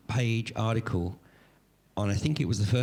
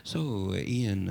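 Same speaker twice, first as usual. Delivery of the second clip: put-on Swedish accent. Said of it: "this is my Swedish accent".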